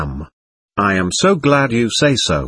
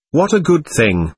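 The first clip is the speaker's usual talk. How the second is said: higher, mildly reproachful echo; reproachful quote; 4 semitones higher than usual. Retold or imitated. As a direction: quote him back with a touch of reproach. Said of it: "her reproach was undeserved".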